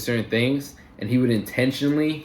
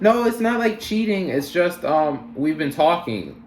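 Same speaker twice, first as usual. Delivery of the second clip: mimicking a defensive girlfriend, higher pitched; high-pitched retold excuse; defensive denial; 6 semitones higher than usual. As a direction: protest in a raised, imitated girlfriend voice. Acting out girlfriend denying she cheated.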